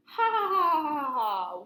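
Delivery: loud, high fake nervous laugh; wolf laughing off Snake's remark; forced laugh. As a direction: cover the awkward moment with a laugh.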